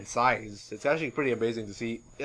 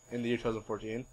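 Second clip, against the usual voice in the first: ordinary delivery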